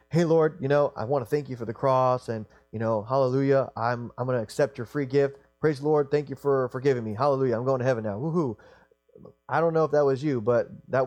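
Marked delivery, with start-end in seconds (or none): 0.1-8.6 proud and boisterous. Retold or imitated. Proud sinner mocking a boastful prayer, in a hammed-up, cocky voice. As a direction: ham up a boastful believer thanking God flippantly. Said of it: "in a proud and a boisterous attitude saying".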